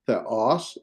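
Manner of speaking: THEOS with e gliding smoothly into o; easy vowel blend. Shown as a demonstration. Teacher showing two vowels that join easily, smooth blend. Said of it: "Sometimes it's not a problem".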